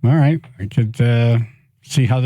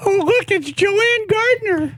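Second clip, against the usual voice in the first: very high sing-song puppet; cheerful kid puppet voice; much slower than usual. Pretend. Puppet dialogue.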